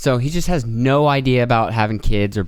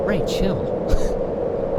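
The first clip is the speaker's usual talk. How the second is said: whispered chill; 8 semitones higher than usual. Retold or imitated. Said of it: "And I was like".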